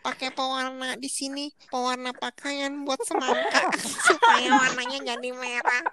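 disguised informant voice, laughing partway; anonymous source on TV, half laughing. Pretend. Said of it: "Gitu kan suaranya".

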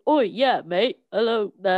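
a hint of South London cockney; mock South London accent. The speaker imitating how Londoners talk, mock cockney accent. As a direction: greet like a London geezer, lightly. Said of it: "The people from London speak like this".

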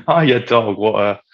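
mock English accent; lightly put-on English accent; English insult. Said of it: "my favorite English insult".

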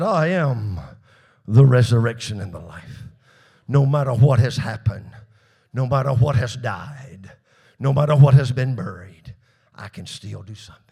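loud, low, weighty declaration; booming pronouncement. Real, not acted. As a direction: proclaim it like thunder. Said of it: "climactic preaching, Jesus quoted".

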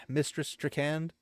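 "Mistress Strachan" said slowly and deliberately after a stumble; slow down and nail "Mistress Strachan"; careful retry. Shown as a demonstration. Narrator fixing a tongue-twister name, slowly and carefully. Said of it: "Said that ten times fast".

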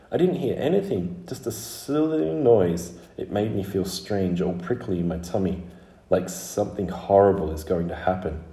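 lightly voiced worried little girl; uneasy little Scarlet.

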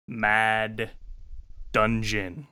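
slow, ominous game-show reveal; ominous announcement. Acted. Game master unveils today's game, ominous and spooky. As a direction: pause between the words like a spooky title. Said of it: "Why did you say it like that?".

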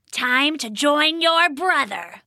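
put-on a goblin looming over the fallen girl; gloating goblin. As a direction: savour the win over her. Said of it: "he said".

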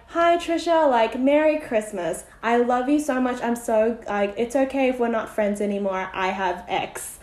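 mock-cheery card greeting, starting high and loud; passive-aggressive. Friend's Christmas card read out to co-hosts, passive-aggressive. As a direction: imitate a falsely sweet Christmas message. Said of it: "the most passive-aggressive Christmas card".

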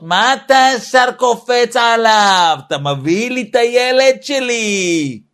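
high, indignant mother defending her son; protective mother. Retold or imitated. Mother shielding child from father, high indignant voice. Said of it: "אז האמא אומרת לו".

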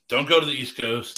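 saying it again through a laugh. Real, not acted. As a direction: laugh while repeating the warning. Repeats the warning, laughing.

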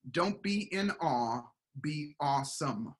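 slow, weighty, each word set apart; slow motto delivery. Shown as a demonstration. Mentor sharing his saying with the podcast host, slow and weighty. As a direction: deliver the motto like a line to remember. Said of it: "I'm gonna give you my saying".

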